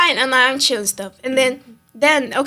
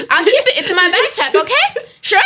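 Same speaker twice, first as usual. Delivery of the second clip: high, mocking fake agreement; sarcastic sure, I'll keep it; 5 semitones higher than usual. Student mocking the teacher's order, high sarcastic voice.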